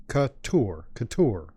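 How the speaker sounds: Couture with the weight on the final "ture"; stress on second syllable. Shown as a demonstration. Host teaches fans the player's name, Couture stressed on its last syllable. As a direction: say Couture as kuh-TOUR, leaning on TOUR. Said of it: "the emphasis is on the tour".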